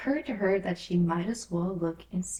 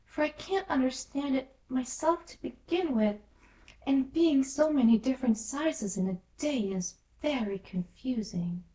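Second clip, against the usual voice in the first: polite; 6 semitones higher than usual. Acted. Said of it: "Alice replied very politely".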